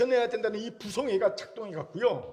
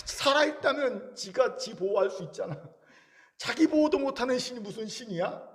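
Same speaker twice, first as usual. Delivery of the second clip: sarcastic mockery; 3 semitones higher than usual. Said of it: "이렇게 비꼬는 거예요".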